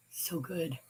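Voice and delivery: softly to herself; quiet echo. Real, not acted. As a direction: let so good fade away.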